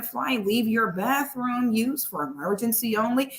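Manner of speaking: calm routine cockpit announcement, mildly mocked; pilot intercom voice. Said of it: "Why do pilots all talk like that?".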